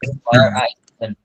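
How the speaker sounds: each word drawn out for learners; teacher modelling an English sentence slowly; slow model sentence. Shown as a demonstration. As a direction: say it slowly and clearly so students can copy it. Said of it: "W E R E".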